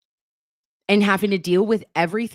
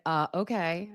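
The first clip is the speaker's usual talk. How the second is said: hesitant Karen; 8 dB quieter than usual. Retold or imitated. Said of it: "And then Karen's like".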